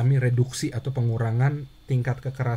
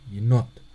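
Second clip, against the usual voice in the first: Yenot with not louder and longer, yi reduced; stress on not; 2 semitones lower, 4 dB louder than usual. Shown as a demonstration. Teacher drilling the stressed second syllable, stress on not. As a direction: hit not in Yenot hard and long. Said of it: "notnya lebih ditekan, lebih keras, lebih panjang".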